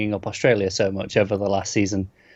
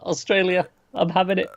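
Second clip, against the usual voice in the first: retold giddy delight, higher pitch; pitched-up, mildly giddy cheer; giddy excitement; 6 semitones higher than usual. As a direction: relive being giddy about Australia. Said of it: "I was so giddy".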